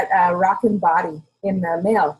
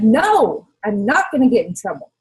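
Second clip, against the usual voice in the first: firm retorted no; 3 dB louder than usual. Retold or imitated. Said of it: "And I'm like".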